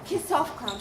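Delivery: dismissive. Acted. Dismissing the clown.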